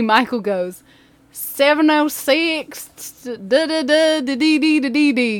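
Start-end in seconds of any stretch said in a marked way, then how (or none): 1.3-5.4 higher, louder mock kid's voice, drawn-out start; student blurting a number. Buddy blurting Kyle's number in class, loud mock blurt. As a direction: call out the digits in a raised singsong.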